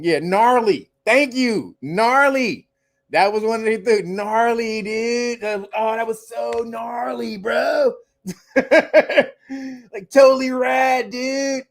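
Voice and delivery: mock stoked dude with a shout; surfer dude impression. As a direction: hype it like an eighties surfer. Mocking old surfer slang.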